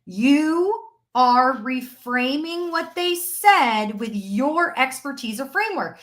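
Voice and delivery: You are reframing what they said drawn out word by word; slow it right down so every word lands; slow, deliberate repeat. Shown as a demonstration. Coach repeating her point to students, slow and deliberate. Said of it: "Hear what I just said".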